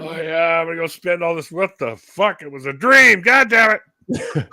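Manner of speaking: building from high giddy to loud annoyed; frustrated outburst. Retold or imitated. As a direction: yell in disbelief at waking up. Retold waking from cash dream.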